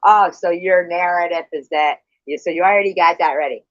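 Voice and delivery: loud, rising angry tirade; real loud anger, words tumbling out fast; furious outburst. Real, not acted. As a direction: blow up at her accusation. Heated live argument, accused of deleting.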